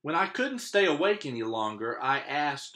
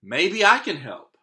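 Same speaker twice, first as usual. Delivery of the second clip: put-on louder boy's call; shouting over wind; 3 semitones higher, 7 dB louder than usual. Boy offering help over the storm, shouting. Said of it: "I shouted over the wind".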